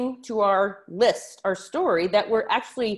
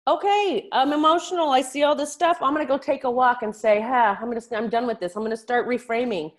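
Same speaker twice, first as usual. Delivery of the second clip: catching yourself; 4 semitones higher than usual. Retold or imitated. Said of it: "So catch yourself".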